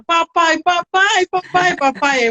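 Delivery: put-on high childish chant of "papai"; kids repeating. Boys saying papai over and over. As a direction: imitate toddlers calling for daddy. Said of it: "aí eles ficaram".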